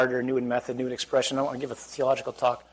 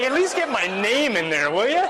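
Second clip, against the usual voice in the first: laughing mock protest; 7 semitones higher, 4 dB louder than usual. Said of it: "He's like".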